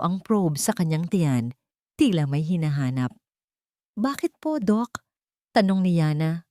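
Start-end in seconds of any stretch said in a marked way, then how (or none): 3.9-5.1 higher, anxious question; nervous lift on the question; suddenly nervous. Acted. Yana asks the worried doctor, higher and nervous. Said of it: "biglang kinabahan".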